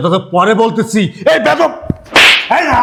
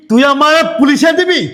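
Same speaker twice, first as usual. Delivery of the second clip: furious shout; 5 semitones higher than usual. Acted. Angry quarrel, shouting back.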